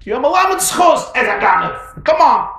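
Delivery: high, loud scoffing; dismissive wife. Acted. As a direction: wave him off.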